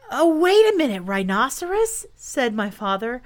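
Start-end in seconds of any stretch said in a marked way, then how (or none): 0.1-2.1 higher, hurried protest; mildly alarmed interjection; urgent plea. Acted. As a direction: stall the beast in a hurry. Pleading not to be drowned.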